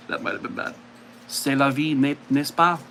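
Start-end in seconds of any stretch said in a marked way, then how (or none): 1.3-2.8 lightly put-on French accent, relaxed; a casual hint of French accent. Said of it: "the French accent".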